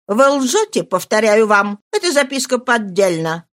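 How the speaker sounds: loud, cutting accusation; sister-in-law snapping at Marie; harsh denial. Acted. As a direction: slam the word down. Quarrel, repeated denial.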